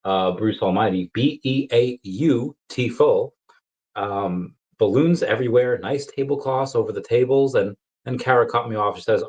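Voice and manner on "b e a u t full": Jim Carrey quote. Retold or imitated. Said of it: "If I can quote Jim Carrey".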